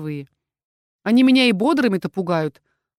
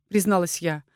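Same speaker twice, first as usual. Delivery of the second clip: plain reading voice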